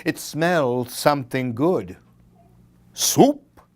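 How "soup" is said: said to itself. A narrator's reading. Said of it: "said the skeleton to itself".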